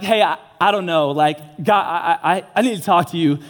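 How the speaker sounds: halting, stammered opener; retold awkward, faltering approach; hesitant approach. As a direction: stumble nervously over the first words. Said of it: "I build up the courage".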